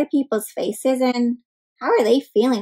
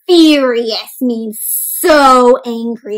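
slow explanation; 4 dB louder, much slower than usual. Shown as a demonstration. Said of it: "can you say that word".

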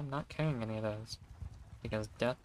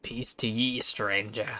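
a louder, hammed-up greeting from a merchant; 5 dB louder, slower than usual. Player voicing the merchant greeting a stranger, loud mock formality. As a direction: hail the stranger like a lightly voiced trader. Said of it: "I'm doing the merchant for some reason".

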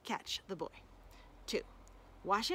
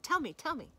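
high, eager plea; eager begging; 5 semitones higher than usual. Acted. Hungry wolf begging the boy for the recipe, high and eager. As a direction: beg for it, repeating keenly.

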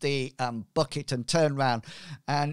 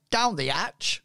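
pirate voice; 4 semitones higher than usual. Acted. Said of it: "my pirate voice".

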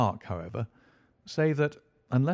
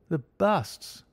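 a sharp, higher exclamation of surprise; cried out; 7 semitones higher than usual. A narrator's reading. Inspector startled at mention of the busts, crying out. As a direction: Lestrade cries out, startled by the busts. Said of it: "cried Lestrade".

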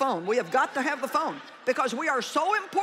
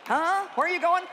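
higher, louder puzzled question; puzzled asker; 5 semitones higher, 4 dB louder than usual. Retold or imitated. Someone asking the preacher where he's going, puzzled and louder. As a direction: ask it like you can't believe it. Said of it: "That'll start a good conversation".

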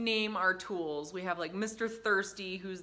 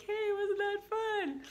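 put-on high, slow, cheery voice for a toddler; sing-song praise; slower than usual. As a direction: coax the child into delight. Praising child in chair.

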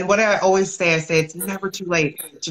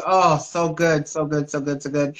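savoring. Real, not acted. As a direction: savor each word, letting it fade. Host savoring the title.

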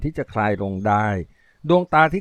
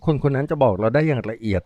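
even, level voice. Acted. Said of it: "ด้วยเสียงเรียบๆ อำพรางความรู้สึกทั้งหมด".

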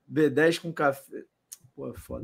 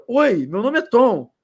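slow, drawn-out mock film line; lightly imitating a sad movie character introducing himself; slow, slightly louder mock film intro; quoting a sad film line; 5 semitones higher, 5 dB louder, slower than usual. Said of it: "Mas pela entonação".

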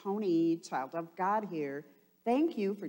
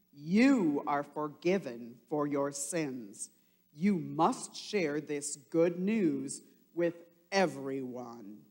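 a hint of a solemn Jesus, louder; lightly voiced Jesus; 3 dB louder than usual. Jesus telling the disciples he lives, lightly voiced. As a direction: proclaim it gently.

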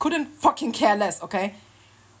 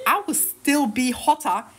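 smug boast; 3 dB louder than usual. Real, not acted. Triumphant boast, laughing.

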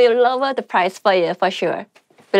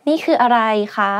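polite; much faster than usual. Shown as a demonstration. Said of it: "If you want to be polite".

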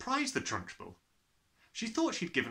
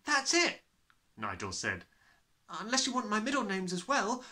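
put-on boy's voice; 10 semitones higher than usual. Nigel answering the Trunchbull.

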